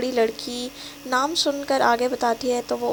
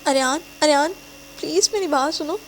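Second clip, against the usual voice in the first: calling out; 4 semitones higher than usual. Acted. Girlfriend calling into dead phone, desperate. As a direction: call after him before he hangs up. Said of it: "وہ چلاتی رہ جاتی ہے".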